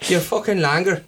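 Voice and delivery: put-on Cork insult; mock Cork accent. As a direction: impersonate a Cork local having a go. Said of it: "I just impersonate people that I know".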